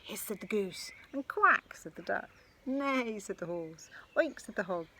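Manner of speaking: lively picture-book storytelling; sing-song read-aloud rhythm; reading to children. A narrator's reading. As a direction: read it with bounce for little ones.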